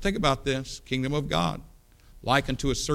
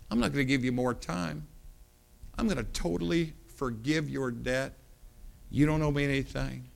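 tender forgiveness. Acted. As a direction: gently lift the debt off him. King forgiving the debtor.

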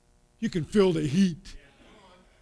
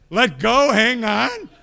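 loud high mock of clashing advice; mock shout; 7 semitones higher, 10 dB louder, slower than usual. Preacher mimics altar workers' clashing advice, loud high shout. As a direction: fire both orders back to back.

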